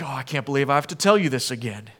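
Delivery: fast, fed-up mock sigh of impatience; a hammed-up weary rebuke; exasperated. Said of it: "It's not like".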